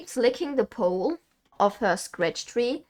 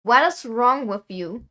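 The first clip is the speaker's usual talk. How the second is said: exasperated scolding; 2 semitones higher, 9 dB louder than usual. Real, not acted. Scolding the cat again.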